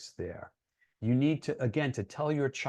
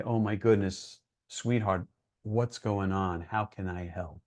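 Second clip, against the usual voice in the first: softer and softer, slowing into tender concern; gentle caring parent; 3 semitones lower, 4 dB quieter than usual. Retold or imitated. Parent gently asking a teen what's going on, soft and tender. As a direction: soothe a hurting child. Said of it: "you gotta take a step back and say".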